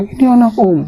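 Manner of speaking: high, loud accusing cry; angry insistence. Retold or imitated. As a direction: jab the words at him. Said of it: "teman saya itu ngamuk". (seruan marah bernada tinggi)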